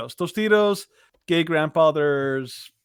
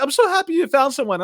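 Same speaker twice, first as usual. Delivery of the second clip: imitating grandma; 8 semitones higher, faster than usual. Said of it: "and Grandma was so happy".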